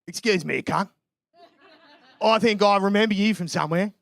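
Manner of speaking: put-on Aussie stranger; Australian accent. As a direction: imitate an Australian accosting someone he half recognises. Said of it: "he turns around and he goes".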